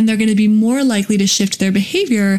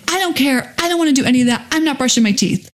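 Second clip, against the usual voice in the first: lightly voiced child pushing back, higher; mock a stubborn kid refusing; a touch of a defiant child who won't brush; 4 semitones higher, faster than usual. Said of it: "So if they say".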